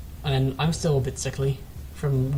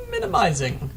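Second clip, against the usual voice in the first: funny emphasized voice; 5 semitones higher than usual. Shown as a demonstration. Caster playing a silly voice to fill silence. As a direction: stretch "Minimizing" playfully up high. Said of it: "Emphasize words because I ... a funny voice".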